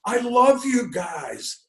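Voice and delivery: put-on high gushing old lady voice, pitch way up; elderly lady. Retelling a fan meeting to the interviewer, in a high old lady voice. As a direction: squeal like a starstruck old fan. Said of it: "an elderly lady sees the sign and goes".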